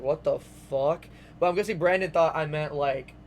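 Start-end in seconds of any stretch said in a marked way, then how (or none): 0.0-1.1 drawn-out stunned what the fuck; slow it down in disbelief; slow shocked disbelief. Retold or imitated. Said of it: "I was like".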